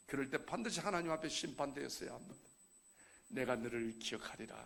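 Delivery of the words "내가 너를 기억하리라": softened verse. Acted. Preacher repeats verse softly.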